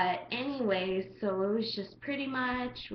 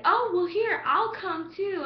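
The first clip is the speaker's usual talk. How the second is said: mock eager guy; 10 semitones higher, 5 dB louder than usual. Imitating creepy guy.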